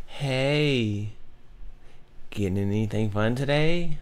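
a cheesy pickup line read in a put-on voice, slow; mock reading of a guy's opener. Shown as a demonstration. A friend mocks a corny opener in a cheesy voice. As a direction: ham up the corny message. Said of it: "Just from a woman's perspective, read this".

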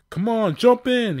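high, loud urgent shout; yell. Acted. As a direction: hurry everyone in. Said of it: "yelled Mario".

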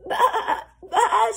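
loud, high quavering bleat; crying lamb. A narrator's reading. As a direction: bleat pitifully for help. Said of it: "she cried".

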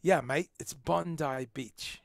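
put-on a weak Australian accent, slow, Bondi said BON-dye; lightly mock Australian, "Bondi" as BON-dye; bad Australian accent. Vlogger trying an Australian accent, weak and slow. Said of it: "My Australian accent's not that good".

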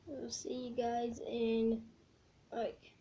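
jaw propped on fist; chin resting on hand. Real, not acted. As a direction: fingers near lips. Seen 1: Fist props chin near lips; no food or chewing visible.

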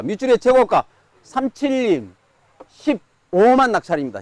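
slow, emphatic sale call; auctioneer. Real, not acted. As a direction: announce the winning bid. Announcing the winning bid.

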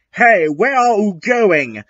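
high, puzzled call; calling after someone. A narrator's reading. Satan calls after falling narrator.

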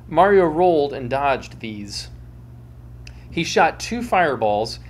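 storyteller reading with dramatic flair; dramatic story reading. A narrator's reading.

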